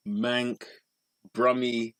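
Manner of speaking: ordinary talk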